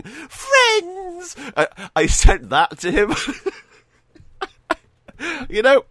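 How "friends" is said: a much higher, screamed cry of joy; Jay's yell. Retold or imitated. Jay on a car yelling at friends, high screamed cry. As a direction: shriek it like jumping on a car. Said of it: "Jay is jumping on a car going".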